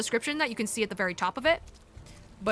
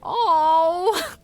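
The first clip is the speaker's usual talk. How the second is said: tearful oh; 4 semitones higher, 6 dB louder than usual. Real, not acted. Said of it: "I'm feeling so emotional".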